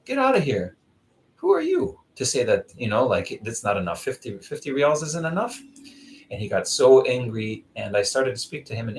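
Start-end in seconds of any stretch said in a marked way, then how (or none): 0.0-5.6 higher, scolding retort; mock indignant dismissal. Telling off the beggar who wanted two hundred, mock outrage. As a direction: send the ungrateful beggar off, half outraged. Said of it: "I said".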